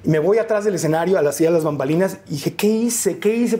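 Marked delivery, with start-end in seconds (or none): 2.6-3.6 higher-pitched, bewildered self-questioning; mild replayed panic; retold dismay. Young host backstage after the booing, retold dismay.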